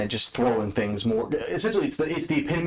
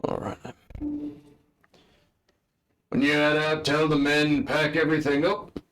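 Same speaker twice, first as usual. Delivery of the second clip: orc general; 5 semitones higher than usual. Acted. Orc general gives orders.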